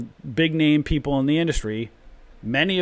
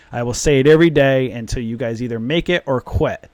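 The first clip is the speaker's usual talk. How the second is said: yelling; 5 dB louder than usual. Real, not acted. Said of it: "I'm just yelling".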